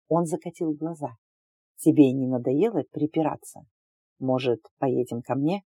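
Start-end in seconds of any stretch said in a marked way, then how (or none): 1.8-5.6 smug man voice. Acted. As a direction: play the smug alien suitor. The suitor invites her home.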